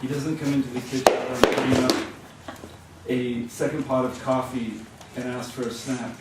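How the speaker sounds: animated literary reading; projected, storytelling delivery; story narration. A narrator's reading. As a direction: read the story out to a live audience. Reads a story aloud.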